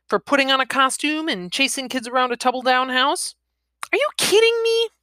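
high-pitched, rising disbelief; incredulous challenge. Acted. Woman disputing his reason for prison, incredulous challenge.

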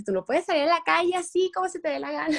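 lightly voiced strict mom laying down the law; scolding mom. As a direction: daughter imitating her mom's mild scolding. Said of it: "mi mamá ahora me dice".

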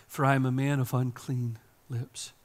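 ordinary talk

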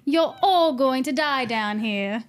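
slow, measured Red Queen accent; the Red Queen's cold accent, slow. Shown as a demonstration. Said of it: "you say it in your accent".

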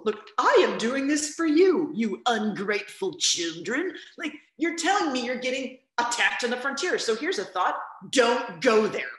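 lightly voiced scolding king, high and slow; a mildly hammed-up king lecturing ungrateful children; King George impression. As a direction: stretch it out like a condescending monarch. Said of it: "his attitude is, much like in the musical".

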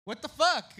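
high loud outrage; startled shout. Retold or imitated. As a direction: react to a cup hitting you. Hit by thrown cup.

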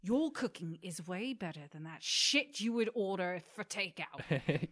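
loud, slow encouraging chef rant; aggressively positive. Pretend. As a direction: yell praise like a furious coach. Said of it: "aggressively in a positive way".

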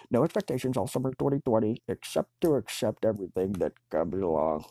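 fast, tossed-off run of the motto; rushed first take. Shown as a demonstration. A stoner on his own trying out a motto, rushed. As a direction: blurt it out quickly as a draft.

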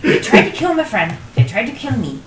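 angry. Acted. Angry outburst about friend.

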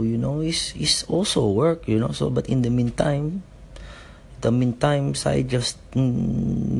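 breezy Filipino lilt; gently put-on Filipino accent. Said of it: "I'll just do it in a Filipino accent".

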